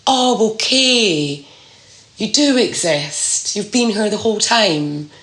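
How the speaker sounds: slow, drawn-out "oh, okay", lifted in pitch; relieved realisation. Acted. Speaker voicing the feeling of finding their people, relieved. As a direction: voice a dawning, welcome relief. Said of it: "incredible feeling of relief".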